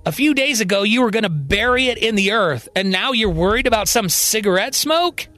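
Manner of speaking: very forceful. Acted. Colby standing up to Marion, very forceful. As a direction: push back forcefully, ending in disbelief. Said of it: "very forcefully says".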